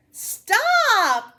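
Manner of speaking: high, loud alarmed shout; cried out. A narrator's reading. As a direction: stop her sharply. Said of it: "cried the grandmother".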